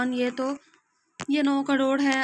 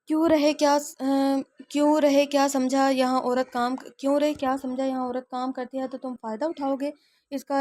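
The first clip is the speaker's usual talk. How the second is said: raised, confronting voice; angry challenge. Acted. Brave woman confronts harasser.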